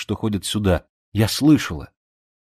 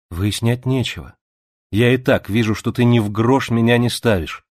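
bitter hurt outburst; 4 semitones higher, 4 dB louder than usual. Acted.

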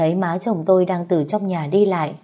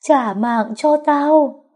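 high, loud drawn-out scream; screaming demand; 8 semitones higher, 5 dB louder, much slower than usual. A narrator's reading. Ghost in red demands her life back, screaming. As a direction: wail the demand slowly at full voice. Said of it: "gào thét".

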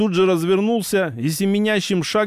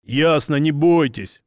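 manly. Acted. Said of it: "мужественно сказал маг".

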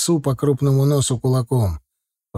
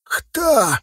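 put-on very high, drawn-out old watchman; slow, high-pitched old man's threat; 13 semitones higher, much slower than usual. A narrator's reading. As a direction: challenge intruders in a high elderly voice. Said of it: "раздался старческий голос".

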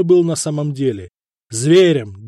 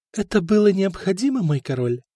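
purring; 6 semitones higher than usual. Acted. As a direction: purr it to your king. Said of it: "промурлыкала она". (ласково мурлыча, с подъёмом)

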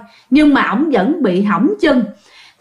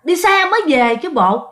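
mock snap; 5 semitones higher than usual. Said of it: "ổng nạt ngang".

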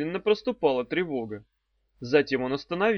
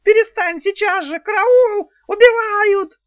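very high, loud terrified scream; screaming in panic; 11 dB louder than usual. A narrator's reading. Succubus screaming as the bus nears. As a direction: shriek for help. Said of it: "завизжал Суккуб в полной панике".

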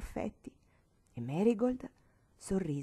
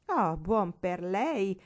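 slow, louder gleeful exclamation; uncle's slow, louder delighted exclamation; exclaiming; 5 dB louder, much slower than usual. Acted. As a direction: savour the moment, loud and slow. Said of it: "esclamò lo zio Clon".

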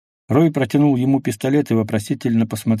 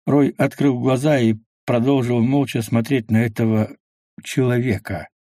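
plain reading voice

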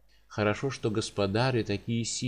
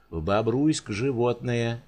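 yelling; slower than usual. Acted. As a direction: bark it out slowly. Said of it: "заорал на него Гремлин".

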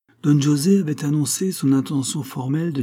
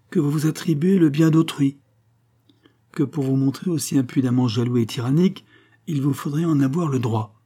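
fiery rebuke; 4 semitones higher than usual. Acted. Concepción rebukes Don José with proud anger. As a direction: put him in his place with fire. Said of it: "un regard de feu".

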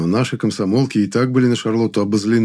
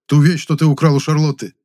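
loud, raised angry accusation; 6 semitones higher, 5 dB louder than usual. A narrator's reading. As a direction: say it crossly, voice up. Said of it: "сердито сказал Гудков".

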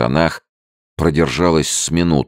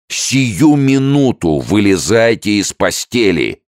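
loud, slow angry command; growled order; 10 semitones higher, 5 dB louder, slower than usual. A narrator's reading. Sergeant growls at the soldier in bed, angry and loud. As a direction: roar it down at the bed. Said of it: "прорычал сержант".

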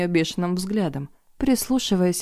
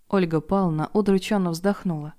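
ordinary delivery

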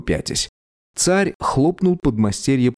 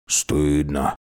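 reproachful; 6 semitones lower than usual. A narrator's reading. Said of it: "укорил Джерн".

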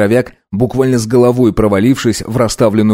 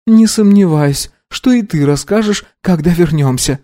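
mocking; 8 semitones higher than usual. A narrator's reading. Mocking retort to Simon.

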